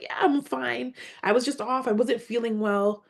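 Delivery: mildly acted pretend-fine reassurance; retold brush-off. Acting out brushing off her concern.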